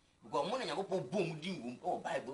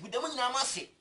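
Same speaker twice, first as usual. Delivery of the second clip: "Meda mo nyinaa mo ase" said high and loud, "mo" hit hard; grateful thanks pitched up and pushed; emphatic thanks; 11 semitones higher, 7 dB louder than usual. Real, not acted. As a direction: belt out the thanks with "mo" stressed. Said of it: "repeated thanks, first take raised".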